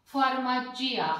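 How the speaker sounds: फार्माचिया said with the आई sound clearly kept; farmacia with the i sounded. Shown as a demonstration. Teacher demos फार्माचिया to students, stressing the i sound. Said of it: "मतलब, आई का इसमें महत्व है".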